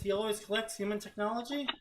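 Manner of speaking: incredulous question. Shown as a demonstration. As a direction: reread "He always collects human technology?" in disbelief.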